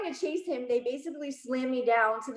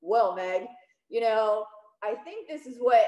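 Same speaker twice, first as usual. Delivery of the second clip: patronizing dad; 4 dB louder than usual. Retold or imitated. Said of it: "a patronizing face".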